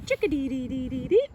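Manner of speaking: quick, lightly voiced bird call; fast little bird call; chickadee call. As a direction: rattle it off like a chickadee. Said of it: "The chickadee is an acrobat".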